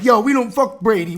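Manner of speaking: put-on rough, hammy Boston accent; a Masshole fan in a Boston accent. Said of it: "my Boston accent's probably terrible".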